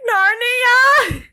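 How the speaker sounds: very high, loud call of Narnia; hopeful cry. Retold or imitated. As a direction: call into the wardrobe with hope. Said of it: "I'm like".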